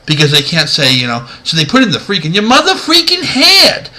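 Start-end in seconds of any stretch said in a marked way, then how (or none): 2.3-3.9 very high, overexcited bad voice double; mock excited TV dub voice; ridiculous dub impersonation. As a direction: send the pitch soaring, hammed-up and excitable. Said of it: "this sounds like ridiculous impersonation".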